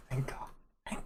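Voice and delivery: hushed aside to Ollie; whispered relief. Acted. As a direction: breathe a small, quiet sigh of thanks. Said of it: "I whisper that to Ollie".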